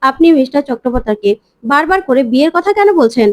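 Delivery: mildly angry scolding, pitch climbing mid-rant; understated indignant outburst at the doctor. Acted. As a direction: tell the doctor off, a touch heated. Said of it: "মিমি প্রচন্ড রেগে যায় আর বলে".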